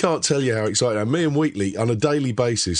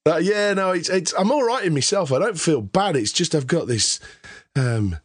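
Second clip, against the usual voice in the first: rough hoarse voice from illness; 5 semitones higher than usual. Real, not acted. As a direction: talk through a hoarse throat. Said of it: "Oh, you sound awful".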